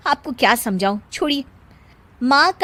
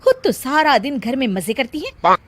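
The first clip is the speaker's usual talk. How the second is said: grumbling complaint; 5 semitones higher, 4 dB louder than usual. Acted. Daughter-in-law complains on phone.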